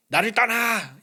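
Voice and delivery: high, loud "나를 떠나!" flung as a rejection; harsh dismissal. Shown as a demonstration. The wrong way Jesus might speak, a loud harsh dismissal. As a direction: snap "나를 떠나!" like driving someone away. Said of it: "이게 아니라".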